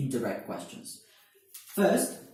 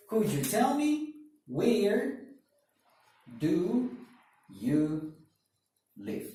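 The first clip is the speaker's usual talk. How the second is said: Could you tell me where drawn out, slow; slow wrong version; 5 semitones higher, much slower than usual. Shown as a demonstration. Teacher slowly models the incorrect question. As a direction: spell out the wrong form slowly. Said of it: "Correct? Not correct".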